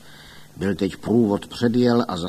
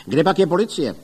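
loud, higher call for the police; 6 semitones higher, 6 dB louder, faster than usual. A narrator's reading. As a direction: shout over the crowd. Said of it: "volal do toho Ostrohradský". (hlasitě volá)

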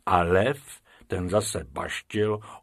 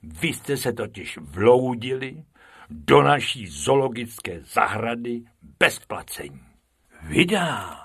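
mild keeper scolding; 2 semitones higher than usual. Acted. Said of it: "rozkřikl se Krmič".

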